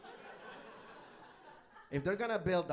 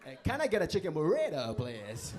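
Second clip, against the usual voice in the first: put-on Spanish accent; 5 dB louder than usual.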